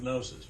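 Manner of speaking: "gnosis" with a hard G into the N; Greek pronunciation. Shown as a demonstration. Teacher telling students you can say it in Greek, G voiced in "gnosis". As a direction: sound both first consonants of "gnosis". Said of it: "You can say that in Greek".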